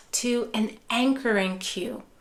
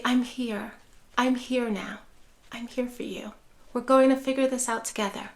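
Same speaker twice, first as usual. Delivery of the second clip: soft reassurance; 4 dB quieter than usual. Shown as a demonstration. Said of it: "in that soft tone of voice".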